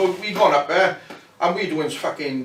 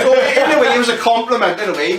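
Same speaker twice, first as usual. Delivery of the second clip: laughing; 8 semitones higher, 7 dB louder than usual. Real, not acted.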